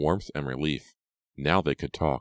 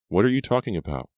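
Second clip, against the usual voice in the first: quicker, higher puzzled question; raised, confused query; 6 semitones higher, 4 dB louder, faster than usual. A narrator's reading. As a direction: ask in mild bewilderment. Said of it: "Brady frowned".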